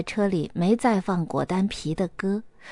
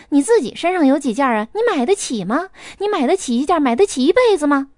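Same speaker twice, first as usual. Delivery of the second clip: relentless taunting; 2 semitones higher than usual. Acted. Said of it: "不依不饶地说".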